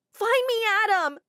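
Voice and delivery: high loud call; desperate calling. Acted. Sarah calls for her brother, high and loud. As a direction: shout his name across the crowd.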